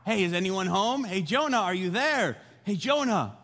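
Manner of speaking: light, questioning call; gentle coaxing. Retold or imitated. God checks whether sleeping Jonah hears, gently calling. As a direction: check kindly whether anyone is listening. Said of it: "God is being gentle".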